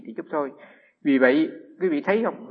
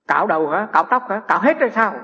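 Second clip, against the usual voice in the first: rising, louder, higher questions; mock astonished questions; 4 semitones higher, 6 dB louder than usual. Neighbour amazed, asking if he shaves everything. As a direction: act her nosy disbelief. Woman quizzes monk about shaving.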